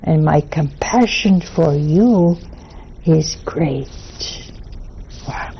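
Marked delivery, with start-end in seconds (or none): 0.0-3.9 solemn Jesus words. Acted. Reading Jesus' words aloud.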